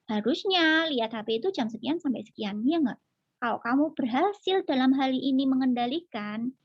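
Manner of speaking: put-on calm firm reminder to child; mother calmly reminding child of agreement; firm but calm. Shown as a demonstration. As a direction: hold the line kindly. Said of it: "Jadi kita harus tegas".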